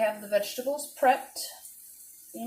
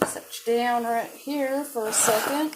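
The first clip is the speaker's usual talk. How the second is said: slightly raised, louder Southern twang; Southern accent; 3 semitones higher, 5 dB louder than usual. Real, not acted. Vlogger setting the camera down, slipping into a Southern accent. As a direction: slip into a light Southern accent. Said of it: "said that with a southern accent".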